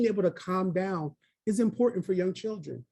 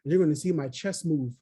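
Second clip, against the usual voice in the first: put-on calm, even voice for showing children; teacher demo voice. Shown as a demonstration. Teacher showing children how to breathe, calm. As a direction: model it gently for a child. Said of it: "We're gonna say".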